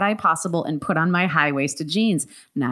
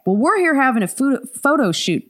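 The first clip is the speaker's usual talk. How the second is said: put-on southern accent; 6 semitones higher than usual. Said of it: "That's not my voice".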